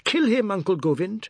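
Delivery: high-pitched egging on; excited high urging; shout. A narrator's reading. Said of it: "the god shouted".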